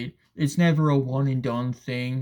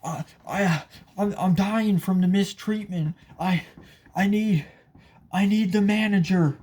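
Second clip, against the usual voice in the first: whiny entitled customer; 6 semitones higher than usual. Retold or imitated. Mocking rude customer to worker, demanding manager, in a high whine. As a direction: ham up a customer crying mistreatment, pitched well up. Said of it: "they'll just be like".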